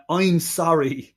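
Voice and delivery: put-on a slow, drawn-out "I'm sorry" in a botched Deep South accent; Deep South accent parody, very slow; mock Deep South accent. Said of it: "He couldn't say".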